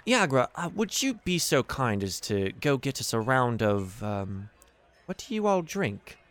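lightly voiced polite host; courteous Davil. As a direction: play a gracious patron asking a favour. Game master plays Davil.

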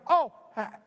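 high, loud, faltering question; awkward embarrassment. Retold or imitated. Preacher asks unrecognized friend, high awkward mock uncertainty. Retold awkward failure to recognize.

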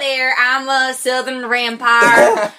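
a hint of a Southern American drawl; Southern American accent. A vampire greeting friends in a mild Southern American accent. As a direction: put on a lightly voiced Southern American accent. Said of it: "Southern American accents".

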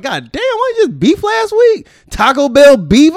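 high, slow disbelieving whine; drawn-out, high exasperated complaint; exasperated outburst. Retold or imitated. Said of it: "I'm like".

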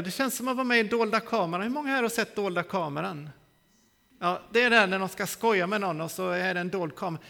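normal talking voice

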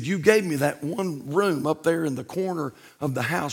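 hushed, low-key answer; quiet Lord voice. Acted. The Lord gently telling the homeowner, hushed and quiet. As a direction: speak it softly, like a patient Lord.

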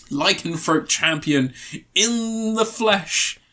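slow, drawn-out mock announcement; grand introduction. Host hailing a beloved werewolf actor, mock-grand. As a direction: savour each word like a title.

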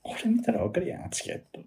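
high-pitched, exasperated Kansai scold; mock furious complaint; angry scolding. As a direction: mimic the fuming customer snapping. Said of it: "そしたらまた切れて".

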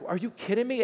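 high, loud disbelief; mock shocked retort; incredulous Moses. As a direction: Moses refusing to budge. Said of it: "Moses would have been like".

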